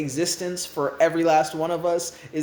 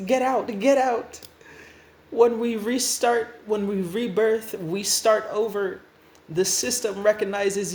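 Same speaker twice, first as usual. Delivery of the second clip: mildly raised, indignant lecture; exasperated scolding; 4 semitones higher than usual. Acted. New Restart lectures the one who pressed rebirth, exasperated. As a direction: scold with incredulous disbelief. Character keeps berating the reckless newcomer.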